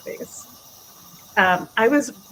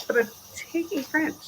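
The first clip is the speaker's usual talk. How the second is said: put-on stubborn teen protest; 7 semitones higher, 4 dB quieter than usual. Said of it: "I said".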